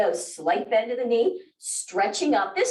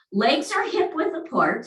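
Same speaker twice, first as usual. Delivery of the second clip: ordinary talk, nothing marked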